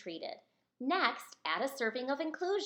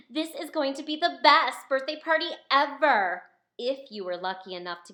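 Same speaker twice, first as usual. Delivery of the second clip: put-on boastful girl; 3 semitones higher, 8 dB louder than usual. Girl on the bus brags about her party, loud and proud. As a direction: brag to the whole bus.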